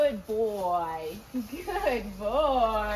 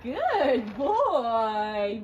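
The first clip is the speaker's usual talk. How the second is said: louder, drawn-out praise for the horse; praising demo; 6 dB louder than usual. Shown as a demonstration. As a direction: stretch out good boy as a reward. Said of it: "is when you go".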